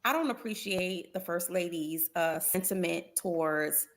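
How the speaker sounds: slow, measured, tactful statement; softened, diplomatic message. Shown as a demonstration. Panelist showing colleague how an athlete could phrase her objection, tactfully. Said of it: "the way I just said that".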